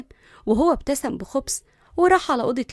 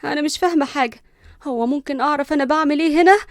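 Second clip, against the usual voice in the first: mildly irritated questioning; understated vexed complaint; exasperated; 2 semitones higher, 4 dB louder than usual. Acted. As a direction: ask with a touch of annoyance. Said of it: "ليندا قالت بغيظ".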